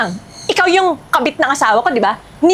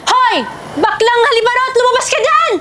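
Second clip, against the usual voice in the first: raised, higher-pitched angry call; loud calling out; 4 semitones higher than usual. Acted. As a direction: call the rival out of the house. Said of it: "ang lakas ng boses ng babaeng to". (pasigaw na panghahamon)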